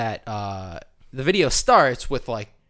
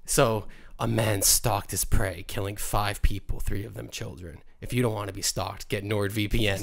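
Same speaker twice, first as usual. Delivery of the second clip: spooky narrator voice; 4 semitones lower, 5 dB quieter than usual. Retold or imitated. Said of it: "a spooky voice talking about".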